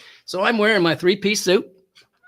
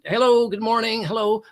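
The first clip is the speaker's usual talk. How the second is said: higher, singsong retold hellos; cheery greetings; 6 semitones higher, 3 dB louder than usual. Churchgoer greeting friends on Sunday, cheery singsong. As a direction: greet passing friends in a lilting voice.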